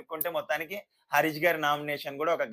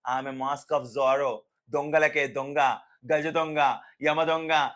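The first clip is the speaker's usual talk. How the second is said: slow, louder self-glorifying build-up; mock boasting; 3 dB louder, much slower than usual. Mocking Harish hyping himself as the master thief, slow and louder. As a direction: drag out each title like a hero's intro. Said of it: "ఈయన అంతకు మించి".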